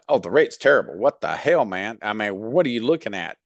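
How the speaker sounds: mock-indignant, a touch heated; the wrong, emotional way to push back; emotional outburst. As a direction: act out a mildly worked-up complaint. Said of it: "you're getting all emotional".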